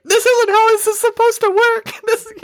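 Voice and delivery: very high, whiny mock protest; mock complainer. Host mimics upset Texans, in high mock protest. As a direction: squeal the complaint in a silly high voice.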